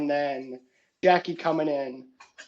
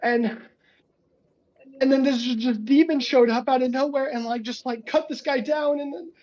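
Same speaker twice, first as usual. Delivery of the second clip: much higher, rattled hostage voice; a traumatized witness blurting it out, pitched way up; shaken hostage; 9 semitones higher than usual. Acted. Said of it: "the guy just goes".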